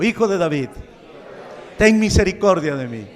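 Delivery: loud pleading cry to Jesus; congregation call. Shown as a demonstration. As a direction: call it out for everyone to repeat. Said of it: "Repita conmigo".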